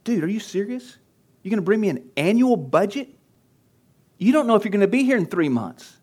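mock going off. Coach scolding a church planter over his annual budget, incredulous and high. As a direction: challenge him, dude, are you serious. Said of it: "I intentionally kinda go off on him".

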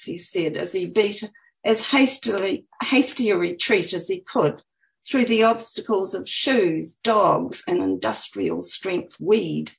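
measured, lilting author reading; expressive book-reading voice; story narration. A narrator's reading. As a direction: read your own story aloud with lifted phrases. Reads her book aloud.

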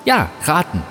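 a hint of an odd afterlife being; lightly voiced blob.

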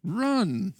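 slow, bright vintage announcer; hammed-up retro PSA pitch; chipper 1950s ad.

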